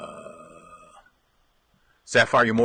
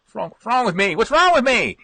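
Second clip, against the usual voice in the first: laughing at himself; laughing, half exasperated; 10 semitones higher, 4 dB louder than usual. Real, not acted. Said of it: "my mouth ran out of batteries".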